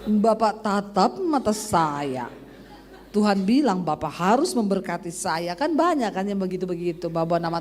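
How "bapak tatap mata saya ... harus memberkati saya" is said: slow, solemn fake-prophet voice with a laugh breaking through; lightly voiced preacher staring you down, half laughing; mock false prophet. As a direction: ham up a pushy prophet, drawing it out. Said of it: "Jangan datangi bapak itu terus bilang".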